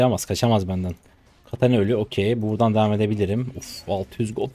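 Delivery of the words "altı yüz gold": ordinary delivery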